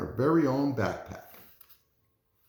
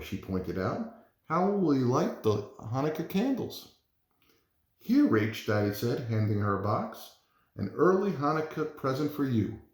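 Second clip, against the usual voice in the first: lively picture-book read-aloud; gentle storytime voice, figures lightly voiced; reading to children. Reads picture book to class.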